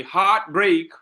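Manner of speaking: "heartbreak" with HEART and BREAK both stressed; two equal stresses. Shown as a demonstration. Teacher giving a spondee example, both syllables of "heartbreak" stressed. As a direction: give both halves of "heartbreak" equal weight. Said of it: "same level of pronunciation".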